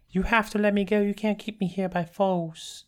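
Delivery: pleading. Retold or imitated. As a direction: beg him to let you go. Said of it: "she's all like".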